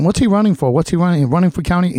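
imitated chorus of nosy questions; imitating speculating questioners. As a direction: fire off questions as the curious crowd. Voicing people's speculating questions.

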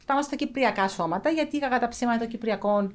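everyday Cypriot Greek speech; cypriot greek accent. Real, not acted. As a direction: speak with a natural Cypriot accent. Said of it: "Cypriot speech throughout". (κυπριακή προφορά)

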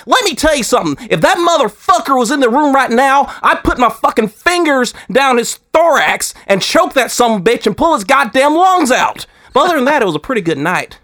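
high, fast-building angry Southern tirade; Bucky Johnson. Acted. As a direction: rant like a riled-up Southern wrestling pundit. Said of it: "the dude just gets heated".

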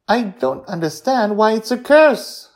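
put-on high, loud child's protest; puzzled young Joy. A narrator's reading. Girl questions her grandparents about a curse, high and puzzled. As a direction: pitch it up like a baffled kid.

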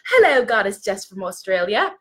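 muddled, light attempt at an Australian accent. Host greeting an Australian viewer, attempted Australian accent. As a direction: greet her in a badly faked Australian accent. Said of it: "I don't know what accent that was".

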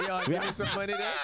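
imitating high voice. Friend imitates the voice.

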